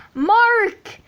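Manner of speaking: high loud call across a distance. Acted. Sean calling to waking Mark, loud call. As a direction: shout his name to wake him.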